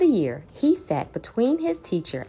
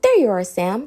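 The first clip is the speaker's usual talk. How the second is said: louder call of relief; shouting; 5 dB louder than usual. Acted. The class shouting on finding Sam. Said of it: "they shouted".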